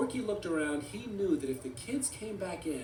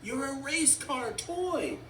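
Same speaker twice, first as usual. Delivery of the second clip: high, mock-screamed protest; raised, exasperated cartoon scream; 7 semitones higher, 3 dB louder than usual. A narrator's reading. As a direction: cry out in a high toy voice. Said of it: "Forky screamed".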